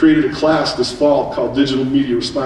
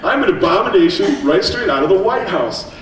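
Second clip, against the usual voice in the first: proud; 3 semitones higher than usual. Retold or imitated. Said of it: "I puffed my chest out".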